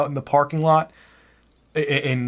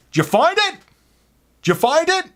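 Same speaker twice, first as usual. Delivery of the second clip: high, loud whiny customer voice; mock pissy demand; 5 dB louder, faster than usual. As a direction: squeal it like an angry goofball.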